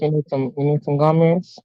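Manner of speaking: soft, hushed offer; whisper voice. Shown as a demonstration. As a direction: lean in and whisper it. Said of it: "In my whisper voice?".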